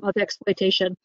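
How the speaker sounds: normal talking voice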